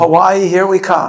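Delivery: loud, high cheer; excited cheer. Real, not acted. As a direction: call it out like a cheer. Cheering a trip to Hawaii.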